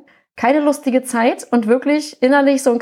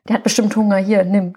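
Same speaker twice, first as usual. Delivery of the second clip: typical partner imitation; 3 semitones lower than usual. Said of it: "so typisch".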